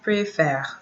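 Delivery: "Préfère" with an open "eh" before the final R; different E sound. Shown as a demonstration. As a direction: say "Préfère" as "pray-FEHR". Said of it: "E is pronounced different".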